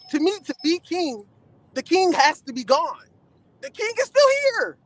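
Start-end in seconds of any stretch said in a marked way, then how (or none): 3.6-4.8 announcer voice. Acted. Crowning LeBron, teasing.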